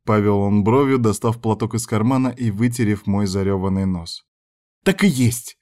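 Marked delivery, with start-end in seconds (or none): 4.8-5.6 snapping. A narrator's reading. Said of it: "огрызнулась я".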